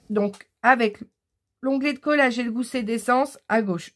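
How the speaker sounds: talking through hiccups after tea; hiccuping. Real, not acted. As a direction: hiccups breaking the words. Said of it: "j'ai le hoquet".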